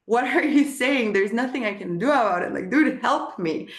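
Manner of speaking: high, exasperated mock outrage; mock indignation. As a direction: play your past self offended he wasn't listening. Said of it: "I was like".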